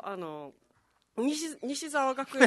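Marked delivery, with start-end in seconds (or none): 1.2-2.5 slow, drawn-out first try at an impression. Shown as a demonstration. Trying out an impression for the host, slow put-on voice. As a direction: stretch the name out in a put-on voice. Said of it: "あれはできるよ".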